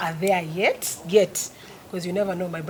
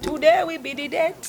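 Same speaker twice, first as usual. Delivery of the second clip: put-on "Today will be the date" in a Nigerian accent, higher; 8 semitones higher, 4 dB louder than usual. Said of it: "sing it in the Nigerian accent".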